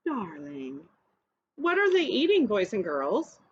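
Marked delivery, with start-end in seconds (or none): 0.1-0.8 slow, affected "darling, darling" with the second one soft and low; posh darling. Acted. Family plays fancy at dinner, affected. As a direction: drawl it like a snooty diner. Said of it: "call each other darling".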